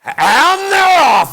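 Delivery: high, drawn-out shout; huge, stretched starting call; race-start call. Acted. Mimics start of rope-drop race.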